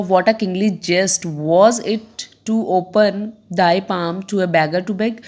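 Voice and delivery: slow, measured verse reading; deliberate classroom poem reading; poem recitation. Acted. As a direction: recite slowly, word by word. Reads the poem aloud.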